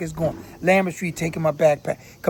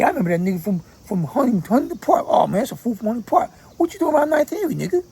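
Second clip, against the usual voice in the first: higher, faster street call-out spotting an outsider; mock gang taunt; 5 semitones higher, faster than usual. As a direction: imitate a corner guy recognising a stranger. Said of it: "that's what they gonna be saying".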